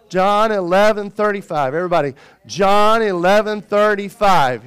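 loud, measured group recitation; leading a recitation. Shown as a demonstration. Preacher teaching the congregation a verse, loud recitation. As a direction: call it out for everyone to repeat. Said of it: "Say it with me".

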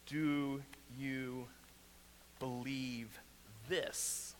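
fading from soft to a whispered this; hushed question. Shown as a demonstration. Pastor pressing the question on each listener, fading to a whisper. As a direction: let the last word fall away into a whisper. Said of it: "repeated question, fading".

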